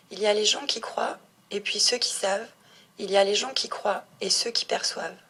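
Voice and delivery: measured reading of a poem, line by line; poem recitation. Acted. Young author reading her poem about people, measured recitation. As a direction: recite it evenly, a pause after each couplet.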